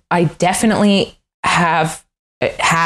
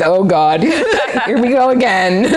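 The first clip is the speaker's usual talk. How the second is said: laughing mock exasperation; weary friend; 4 semitones higher than usual. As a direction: roll your eyes through a laugh. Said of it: "my friend Kevin is just like".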